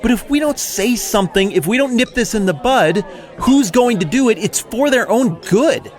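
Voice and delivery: righteous outrage, building as he justifies himself; indignant Pharisee rant. Acted. Jeff the Pharisee complains to his buddy Mike, indignant and preachy. Pharisee rants about Jesus.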